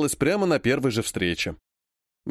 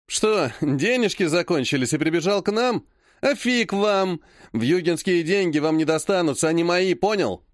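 a cousin's sneering brag, pitched up a little; mocking taunt; 3 semitones higher than usual. Cousin Vlad mocks Ilya about money, sneering. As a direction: gloat over him.

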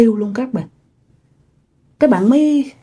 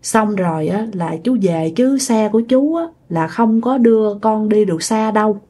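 put-on unhurried, halting older man's voice, slightly softer; slow speech; 3 dB quieter than usual. Shown as a demonstration. The man explains his bike cannot go far, speaking slowly. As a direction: take your time, pause after each phrase. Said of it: "Ổng nói chậm chậm".

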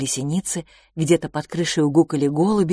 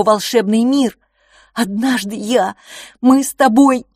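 louder, higher, urgent retelling; louder, impassioned plea to Phil; desperate pleading; 5 semitones higher, 6 dB louder than usual. A narrator's reading. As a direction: pour it out, begging to be believed. Brother desperately retells rescue.

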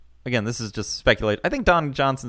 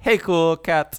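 cool biker voice; 6 semitones higher, slower than usual. Retold or imitated.

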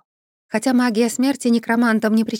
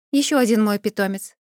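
plain reading voice

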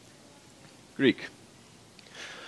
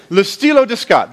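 French accent on Le Stylo de Scott; French phrase; 3 semitones higher, 5 dB louder than usual. Shown as a demonstration. Preacher to congregation, modest French accent. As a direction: say Le Stylo de Scott the French way, Lay Stee-loh duh Scott. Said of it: "I can't do the accent as well as you did".

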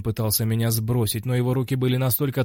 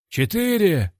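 high-pitched called-out number; referee's count; 9 semitones higher, 4 dB louder, slower than usual. Acted. Referee counts over the fallen fighter, high call.

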